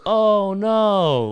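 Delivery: high, mock-dismayed call; crowd calling out. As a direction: call out like a whole audience. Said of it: "they call out".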